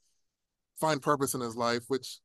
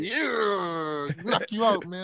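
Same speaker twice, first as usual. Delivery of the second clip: higher, hammed-up New York tough-guy voice; Penguin-like New York accent; 7 semitones higher than usual. Playing a mobster who warns someone off, in a bad New York accent. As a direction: threaten like a cartoon Penguin gangster. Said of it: "it sounds like the Penguin".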